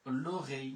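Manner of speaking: French word l'oreille spelled out; French l'oreille, slow and clear; French demo. Shown as a demonstration. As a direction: say লো রেই as French l'oreille, lo-ray. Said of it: "লো রেই মানে হচ্ছে কান".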